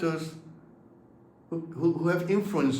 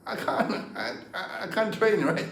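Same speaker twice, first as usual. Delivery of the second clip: breaking into a laugh mid-sentence; 4 semitones higher than usual. Real, not acted. Laughing at the thought of fighting in the ring. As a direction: laugh it off as the words fall apart. Laughs at training at his age.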